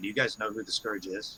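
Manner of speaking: under the breath. Playing a character who asks two crewmates a question, under the breath. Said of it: "under my breath".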